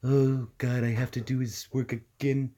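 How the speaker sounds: long-suffering little Kif voice; Kif impression. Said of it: "Kif isn't that difficult to do".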